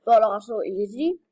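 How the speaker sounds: talking with candy in mouth; words around a mouthful of candy; chewing while talking. Real, not acted. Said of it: "I'm chewing candy".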